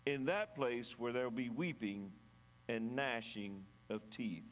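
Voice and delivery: measured Bible reading aloud; scripture reading. A narrator's reading. Pastor reads the parable of the talents to church, scripture reading. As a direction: read the parable out deliberately, with pauses between phrases.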